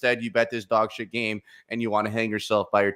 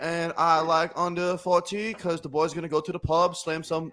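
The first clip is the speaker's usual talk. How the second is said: higher-pitched put-on English accent; 5 semitones higher than usual. Host gives his pick on request, in a put-on English accent. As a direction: give the betting pick as a mock Englishman. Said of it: "Give it to us in an English accent".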